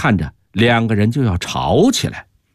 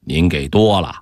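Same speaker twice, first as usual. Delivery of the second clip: amiable; 5 semitones lower than usual. A narrator's reading. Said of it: "和气地说".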